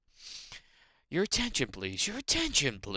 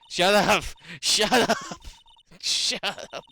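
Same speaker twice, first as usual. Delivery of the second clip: loud, higher "shut up" breaking into laughter; laughing shout; 5 semitones higher, 6 dB louder than usual. Real, not acted. Streamer yelling at teasing chat, laughing. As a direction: yell it back at chat while cracking up.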